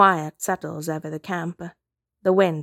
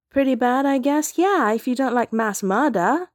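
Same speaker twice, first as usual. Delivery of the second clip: high-pitched, incredulous sarcasm; scandalized, mocking echo of an understatement; sarcastic outrage; 6 semitones higher than usual. A narrator's reading. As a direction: throw it back in indignant disbelief. Outraged echo, eyes bugging.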